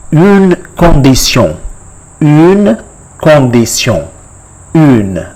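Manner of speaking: "une condition" as French, rounded u and nasal -syon; French pronunciation. Shown as a demonstration. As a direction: model "une condition" in careful, separated French words. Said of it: "it is called".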